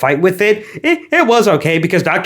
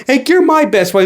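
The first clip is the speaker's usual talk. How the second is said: higher, gushing singsong; mock buddy voice; 7 semitones higher than usual. Mocking the dance-off buddy scene, lightly high gushing voice. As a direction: play it like a sappy kids' film.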